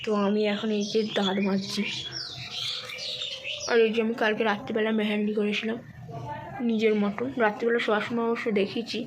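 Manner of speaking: talking through a toothbrush; while brushing teeth. Real, not acted. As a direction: mouth full of toothpaste. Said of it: "দাঁত মাজতে মাজতেই গল্প করছি".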